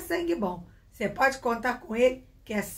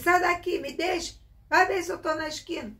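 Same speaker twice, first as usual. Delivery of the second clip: put-on higher, exasperated mum telling the kid to go; mother shooing child; 5 semitones higher than usual. Mother pushes the pestering child away, higher and exasperated. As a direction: shoo the child away, fed up.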